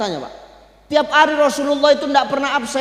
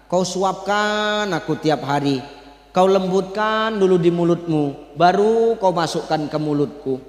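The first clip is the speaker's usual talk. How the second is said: put-on old blind man; 4 semitones lower than usual. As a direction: speak as a thankful old blind man, a little lower. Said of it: "apa kata orang buta ini?". (suara pelan orang tua buta yang berterima kasih)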